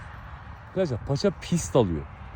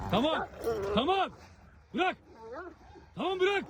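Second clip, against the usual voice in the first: high-pitched but softer orders to let go; urgent commands; 11 semitones higher, 11 dB quieter than usual. Real, not acted. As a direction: urge the dog off in a high voice. Urging dogs to let go. (ince sesle telaşlı komut)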